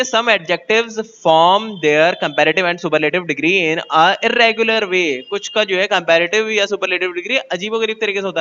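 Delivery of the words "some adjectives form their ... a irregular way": slow, careful dictation of a textbook rule; spelling out a grammar rule slowly; slow rule reading. Acted. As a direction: read the rule out word by word. Reads English rule aloud slowly.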